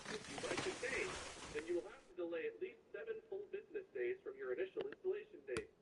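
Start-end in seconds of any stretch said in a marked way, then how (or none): 0.1-1.1 high, sing-song automated prompt; mock robot voice. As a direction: parody the phone menu. Mocking the automated message.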